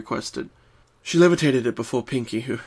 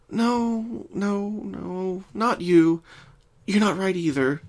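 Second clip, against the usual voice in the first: higher, quick rejecting; muttering Twilight; 7 semitones higher, much slower than usual. Acted. Twilight rejects books one by one, brisk. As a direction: dismiss each book briskly.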